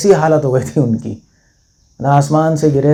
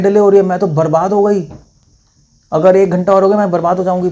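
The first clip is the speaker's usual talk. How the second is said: panicked pleading; 3 semitones higher than usual. Retold or imitated. Woman pleading about losing everything.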